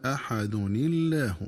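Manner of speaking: أحد الله said as أحدِنِلّاه, nun with kasra, hamza dropped; joined with kasra. Shown as a demonstration. Teacher isolates the joined words for students, slow and deliberate. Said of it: "بكسر نون التنوين".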